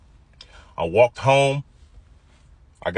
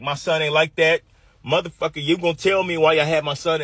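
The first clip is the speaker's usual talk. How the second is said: mock angry father; 6 semitones higher than usual. Dad cursing at the officer.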